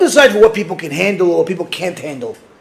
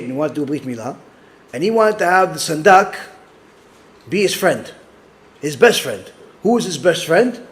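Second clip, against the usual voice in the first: ordinary talk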